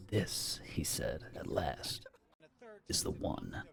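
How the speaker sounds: soft, unvoiced, awed reveal; hushed. A narrator's reading. Salesman softly names the house that will be struck. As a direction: breathe it out as a secret. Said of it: "to quiver his fingertips".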